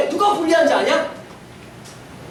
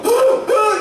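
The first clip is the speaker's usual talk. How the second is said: panicked gasps; 8 semitones higher, much slower than usual. Retold or imitated. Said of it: "이러고 있는데".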